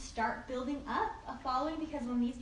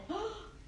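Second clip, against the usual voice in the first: mock gasp; 9 semitones higher, 5 dB quieter than usual. Acts delight at getting a reply.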